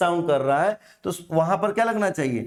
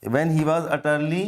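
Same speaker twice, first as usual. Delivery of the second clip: When he was utterly, slow and lower; slow reading, lower; 4 semitones lower, much slower than usual. Shown as a demonstration. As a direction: repeat it slowly, dropping the voice. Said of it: "जब वो क्या था?".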